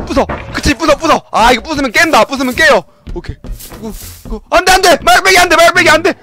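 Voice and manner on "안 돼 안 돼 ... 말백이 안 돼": panicked yelling. Real, not acted. Panicking as the pillow hits.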